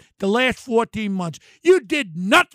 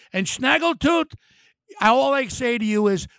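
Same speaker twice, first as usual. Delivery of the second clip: usual speaking voice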